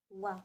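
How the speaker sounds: wa as one syllable, w gliding into a; sound demonstration. Shown as a demonstration. Teacher showing what O and I bring about, wa sounded out. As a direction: sound out wa for the letters O and I. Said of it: "O and I usually brings about wa".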